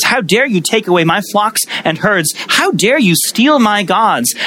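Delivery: mock-outraged father-in-law; enraged Laban. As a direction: voice Laban's outrage as the accusations pile up. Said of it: "he is enraged".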